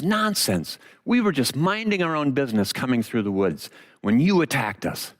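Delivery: mildly indignant scolding, starting high; mad Dorothy. Acted. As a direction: tell him off with a touch of indignation. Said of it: "and she's mad at him".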